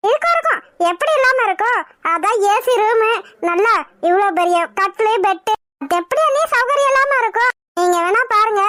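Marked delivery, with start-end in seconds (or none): 0.1-7.5 sarcastic mockery. Wife sneering to husband about the guest's comforts, sarcastic. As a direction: jeer at her luxury with mock sweetness.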